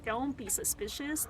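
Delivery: softly murmured to self. Pretend. Sneaking past enemies, soft murmur. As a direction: say it softly under your breath.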